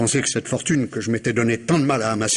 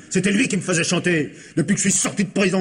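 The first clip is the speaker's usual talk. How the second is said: nervous laughing; 6 semitones higher, faster than usual. Acted. Suspect blames his accomplice.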